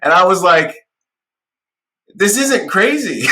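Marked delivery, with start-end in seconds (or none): 2.2-3.3 slow, high, shouted retort; loud incredulous comeback; emphatic retort. Retold or imitated. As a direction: hammer home it's nothing special. Retold reply to commenter.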